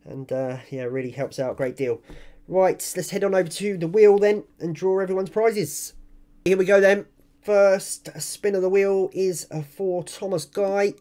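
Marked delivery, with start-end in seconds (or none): 2.5-10.9 hyped giveaway announcement. Real, not acted. Wheel spin for giveaway winners.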